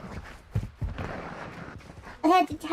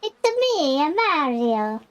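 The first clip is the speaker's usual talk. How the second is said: high Italian Mario voice on "It's me"; Mario impression; 3 semitones higher, slower than usual. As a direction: jump high for a cartoon Italian plumber. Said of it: "I sound like".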